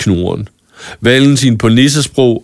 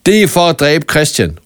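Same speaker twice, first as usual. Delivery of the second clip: higher, urgent shout; shouted accusation; 5 semitones higher than usual. Acted. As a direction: throw the accusation at her. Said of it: "råbte Valentin til Cornelia".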